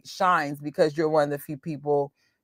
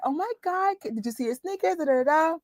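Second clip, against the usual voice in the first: put-on much higher, soft, gushing girl talk; bestie girl voice; 10 semitones higher, 4 dB quieter, faster than usual. Gushing to her bestie about sneakers, much higher and soft. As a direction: squeal it to your best friend. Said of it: "When I'm around my bestie".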